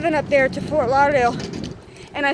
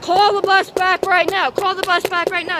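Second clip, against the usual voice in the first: raised, insistent order to call the bus back; angry demand; 4 semitones higher than usual. Retold or imitated. Student yelling at office staff to recall bus.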